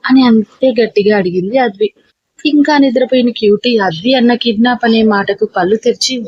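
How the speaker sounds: plain reading voice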